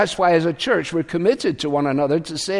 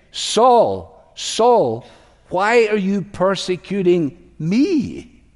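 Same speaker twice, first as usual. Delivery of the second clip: higher, solemn calling-out; voice of Jesus; 4 semitones higher, much slower than usual. Acted. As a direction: call him by name, then question him slowly. Voices Jesus confronting Saul.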